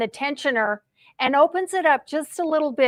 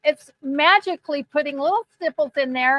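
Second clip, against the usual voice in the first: golf commentator. Pretend. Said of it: "I want you to do it in a golf voice".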